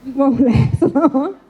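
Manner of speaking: repeats "You won't last long" through a laugh. Real, not acted.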